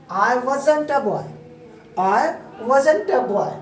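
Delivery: British-style demo, "wasn't a" linked as wuh-zun-ta; slow British-style model sentence, contracted. Shown as a demonstration. Teacher models for students, British-style contraction. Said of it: "British style में क्या बन गया".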